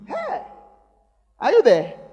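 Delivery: sharp high call to wake the room. Real, not acted. Calling out to quiet congregation.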